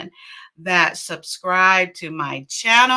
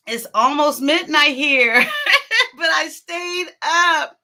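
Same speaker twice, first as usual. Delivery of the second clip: laughing; 5 semitones higher, 3 dB louder than usual. Real, not acted. Laughing about the late hour.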